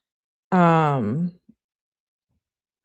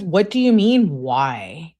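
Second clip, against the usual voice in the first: acted indignation; 3 dB louder, slower than usual. Girlfriend challenging boyfriend's reply, acted indignation. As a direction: push it out indignantly, then drop.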